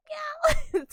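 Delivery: high cute meow; cat meow. Shown as a demonstration. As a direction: meow like a kitten. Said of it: "Nya Nya being like a cat".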